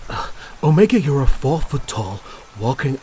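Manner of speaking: high, loud exasperated cry of the name; exasperated outburst. Acted. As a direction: blurt the name out in disbelief. Exasperated outburst at disguised robot.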